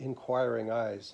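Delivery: plain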